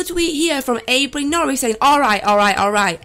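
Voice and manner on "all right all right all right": excited. Retold or imitated. Reading a hyped tweet aloud.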